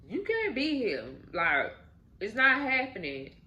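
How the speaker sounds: high and loud, shutting him out; mother's loud refusal. Retold or imitated. Mother ordering Pat to leave the baby shower, high and loud.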